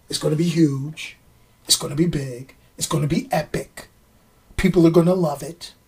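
villain impression slipping into a boastful politician; lightly imitated politician, low and soft; Donald Trump. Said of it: "I'm sounding like John, Donald Trump".

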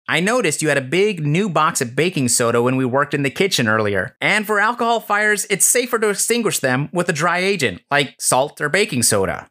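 matter-of-fact. Acted. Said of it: "Tony plainly said".

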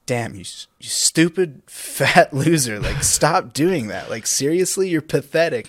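slow, drawn-out mock berating; bullying himself. Bullying himself for being lazy, mock scolding. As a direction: lay into yourself, rising at the end. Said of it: "sometimes I bully myself".

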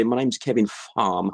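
lightly put-on posh English; mock posh accent with broad ah. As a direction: play at posh introducing yourself. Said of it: "if I was posh, I would say".

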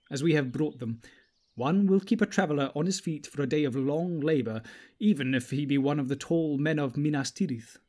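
a kindly elf host giving counsel; gentle elf. Acted. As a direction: elves urging the company to spare the food. Elves voiced above the narration.

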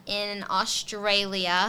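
put-on slow, drawn-out Australian accent with a rising end; a playful stab at an Australian accent. Co-host jokingly tries her Australian accent, drawn out slowly. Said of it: "that was my Australian accent".

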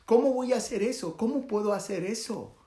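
the assassin can't believe what Buda asks of him; incredulous assassin. Acted. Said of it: "El asesino dice".

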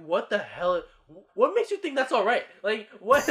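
mock outrage, building in pitch and force; retold anger. Angry friend scolding the one who woke him, mock outrage. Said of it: "I was so angry".

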